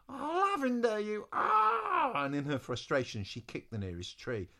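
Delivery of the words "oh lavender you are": high exasperated outburst; frustrated. Acted. Eliza rages at absent Lavender, high frustrated cry. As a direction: let it rise into a frustrated cry.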